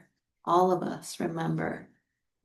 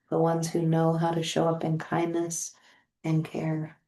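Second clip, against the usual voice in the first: guided meditation. Acted. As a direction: guide them gently into feeling loved. Leads a guided meditation on love.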